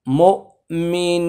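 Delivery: মুমিনিন with the last ি held long; three alif stretch. Shown as a demonstration. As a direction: draw out মুমিনিন to three alifs. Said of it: "তিন আলিফ টানতে হবে।". (মুমিনিন তিন আলিফ টেনে)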